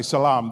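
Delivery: "salam" with a long open final "ah": sa-LAAM; Arabic pronunciation. Shown as a demonstration. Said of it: "maybe said a little bit differently".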